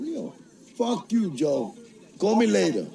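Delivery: high-pitched, exasperated brush-off; retold irritation. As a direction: imitate fed up on the phone. Retold irritated phone sign-off.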